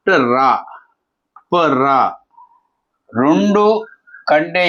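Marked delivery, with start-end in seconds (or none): 0.1-2.0 ట then a full రా, ప then a full రా; short first consonant, strong rolled రా; full-r demonstration. Shown as a demonstration. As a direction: split each cluster: ట-రా, ప-రా. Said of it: "రా పూర్తి".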